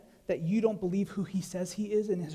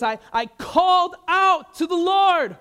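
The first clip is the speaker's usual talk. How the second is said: slow, higher and louder cry; a psalmist crying out loud; calling out; 9 semitones higher, 9 dB louder, slower than usual. Retold or imitated. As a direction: call out to the Lord, slow and loud. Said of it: "not what we see in the Psalms".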